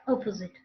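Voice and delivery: "opposite" joined up, with its final t; word said together. Shown as a demonstration. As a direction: say "opposite" as one unbroken word. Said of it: "the word together like that".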